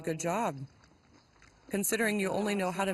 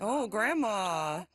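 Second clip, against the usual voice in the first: playing grandpa; much slower than usual. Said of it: "and you're the grandpa".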